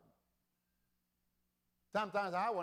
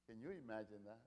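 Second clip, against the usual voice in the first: hushed question; 6 semitones lower, 13 dB quieter, faster than usual. Shown as a demonstration. Preacher repeats question, softly first.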